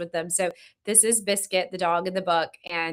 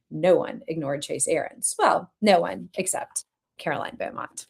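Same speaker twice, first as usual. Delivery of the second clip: measured, expressive audiobook-style reading; story narration; 4 semitones lower than usual. A narrator's reading. Author reading her novel to online fans, story narration. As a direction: read the chapter aloud to an audience.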